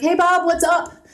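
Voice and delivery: overly casual email writer. Retold or imitated. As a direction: ham up a too-friendly young hire. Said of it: "and is like".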